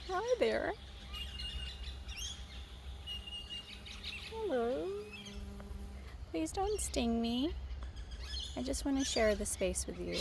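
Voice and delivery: sweet talk to a bee. Real, not acted. Talking to a bee, high and coaxing. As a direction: coo at the bee so it stays calm.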